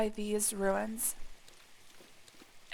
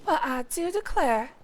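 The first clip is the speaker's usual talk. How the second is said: put-on slow, drawn-out Southern belle accent; a light put-on Southern belle accent; 3 semitones higher, 3 dB louder, slower than usual. Streamer joking he'll talk like a Southern belle, slow Southern accent. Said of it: "talk like a Southern belle".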